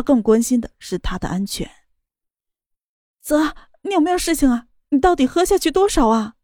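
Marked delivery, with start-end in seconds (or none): 3.2-6.3 worried, pitched-up questions; anxious. Acted. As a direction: ask anxiously, fearing the worst. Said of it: "莫雨涵焦急的道". (焦急地问)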